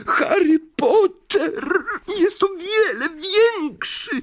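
hugging him with gratitude; heartfelt elf. Acted. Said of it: "objął go serdecznie".

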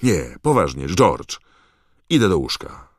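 loud, fed-up call over the noise; yelled. Acted. Harry shouting to George that he is going to bed. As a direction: shout him down, you are done.

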